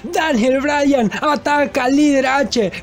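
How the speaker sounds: narración aguda, lenta y alargada; asombro exaltado. Acted. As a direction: proclama la rebelión a voz en cuello. Narra el ataque sorpresa al líder. (comentarista gritando con asombro)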